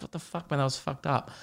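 a hushed, appalled friend; half-whispered disapproval; shocked friend. Retold or imitated. Friend quietly appalled after he swore at a baby, hushed shock. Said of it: "They'll be like".

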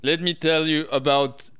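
lightly voiced Arnie robot voice; Arnold Schwarzenegger impression. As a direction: start a mock Arnie line. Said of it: "hit us with your flawless impression".

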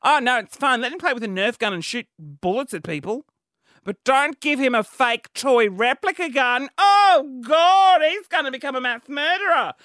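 sending up her own hypocrisy, building to mock alarm; mocking herself. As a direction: parody her own fussing, rising to mock alarm on "Oh, God". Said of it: "I feel really hypocritical".

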